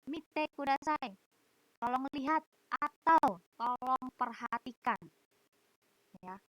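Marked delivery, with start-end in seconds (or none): 0.1-5.0 teacher instruction. Retold or imitated. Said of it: "saya akan bilang".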